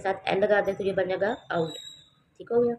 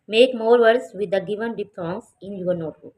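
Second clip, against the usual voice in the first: louder, very slow instruction; slow loud reading; 6 dB louder, much slower than usual. Shown as a demonstration. Teacher reading the notebook task to students, loud and slow. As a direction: announce the task slowly.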